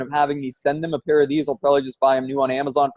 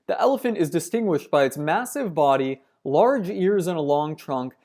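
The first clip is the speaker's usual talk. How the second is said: measured documentary read; reading aloud; 3 dB quieter than usual. Acted. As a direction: read it like a nature narration. Reads a nature passage aloud.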